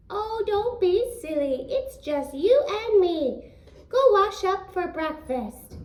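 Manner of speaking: giant's wife. Acted. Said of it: "giant's wife replies".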